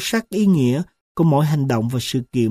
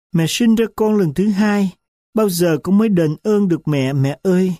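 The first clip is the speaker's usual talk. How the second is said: tearful plea; 3 semitones higher than usual. Acted. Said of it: "cô bật khóc ... nức nở".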